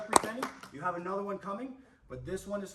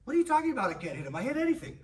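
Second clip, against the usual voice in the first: mock tough Diego; 9 semitones higher, 5 dB louder, faster than usual. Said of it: "Where he's from, he didn't understand".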